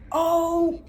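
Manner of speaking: West African braider telling you to go; West African accent. Retold or imitated. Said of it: "excuse me, accent".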